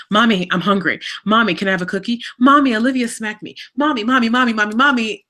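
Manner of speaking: hint of nagging kids, piling up the calls; imitating pestering kids. Mom imitating her kids at her desk, mildly pestering. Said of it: "my children are like".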